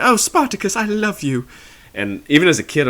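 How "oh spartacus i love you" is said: swooning lover. Retold or imitated. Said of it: "she's like".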